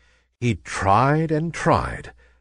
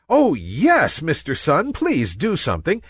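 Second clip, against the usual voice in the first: higher, eager pleading; pleading clouds; 10 semitones higher than usual. A narrator's reading. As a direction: beg the sun for help. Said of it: "said the clouds".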